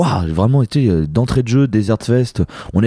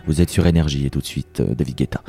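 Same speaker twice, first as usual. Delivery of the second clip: low, smooth radio DJ voice, softer; suave radio host voice; 5 semitones lower, 3 dB quieter than usual. Pretend. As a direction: purr it like a late-night radio host. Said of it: "avec ma voix suave d'animateur radio".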